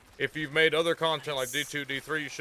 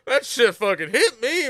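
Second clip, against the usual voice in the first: emphatic; 6 semitones higher, 6 dB louder than usual. Real, not acted. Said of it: "I'm telling you".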